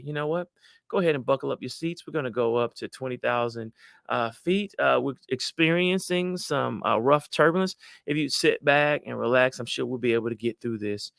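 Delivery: steady, unshakable cabin announcement; calm pilot. Acted. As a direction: reassure the passengers, emotions contained. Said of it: "you stay calm".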